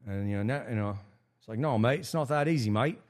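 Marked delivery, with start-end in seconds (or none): 1.6-3.0 put-on a half-hearted stab at a New Zealand accent; attempted Kiwi accent. To Kiwi mates who ask why he doesn't start a business, a faint attempted Kiwi accent. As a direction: lightly put on Kiwi accent, barely shifted from his own voice. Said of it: "I don't think I can do the Kiwi".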